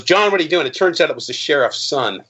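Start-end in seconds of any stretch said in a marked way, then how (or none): 0.0-0.7 cop's stern surprise. Retold or imitated. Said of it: "and goes".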